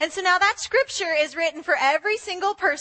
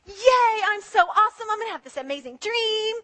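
mock boastful teen; 4 semitones higher than usual. Young Joseph bragging voiced.

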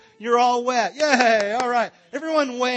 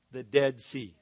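doom reveal; 8 semitones lower, 6 dB quieter, slower than usual. Shown as a demonstration. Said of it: "bad news, dramatic reveal".

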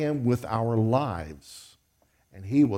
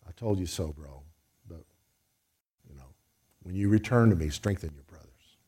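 tender love; 7 semitones lower than usual. Pretend. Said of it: "Or was it the look of love?".

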